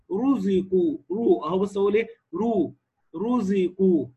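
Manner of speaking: رزقوا with a heavy, thickened ra. Shown as a demonstration. Teacher showing a rule to students, heavy ra in رزقوا. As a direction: make the ر of رزقوا full and heavy. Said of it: "مفتوحة أو مضمومة تفخم".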